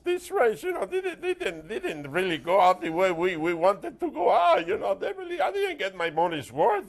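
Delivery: badly faked Australian accent, pitch jumping about; halting, unconvincing attempt at Australian. Shown as a demonstration. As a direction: stumble through a mock Australian accent. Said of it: "wanna see my Australian accent".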